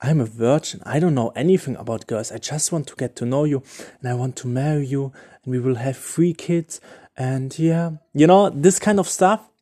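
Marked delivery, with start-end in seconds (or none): 0.0-7.9 softer, syrupy mock-sincere plea; quiet, over-sweet mock pleading; exaggerated sappy devotion. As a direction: ham up the innocent devoted lover. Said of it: "do the total opposite".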